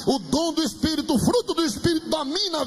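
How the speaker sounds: insistent, climbing sermon crescendo; fervent preaching. Real, not acted. Preacher declaring victory over the devil to believers, fervent preaching.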